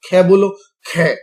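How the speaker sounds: forceful aspirated खे. Shown as a demonstration. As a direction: push air hard on खे. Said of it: "बोलने में बहुत प्राण निकले".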